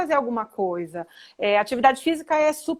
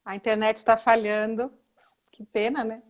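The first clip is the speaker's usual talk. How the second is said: hushed aside about the connection; whispering; 2 semitones lower than usual. Real, not acted.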